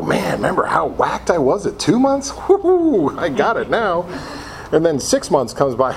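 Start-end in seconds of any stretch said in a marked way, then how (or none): 0.0-2.3 mock cocky triumph. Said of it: "you go". 2.5-3.2 high, bright mock whoop; whooping cheer. Three months sober and cocky, a high mock whoop. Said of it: "you go". 3.2-4.1 mock cocky triumph. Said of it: "you go".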